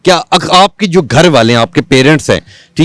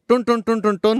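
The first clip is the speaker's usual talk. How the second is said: phone ring imitation; 2 semitones higher, 10 dB quieter than usual. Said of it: "اب میں آپ کو کال کر رہا ہوں".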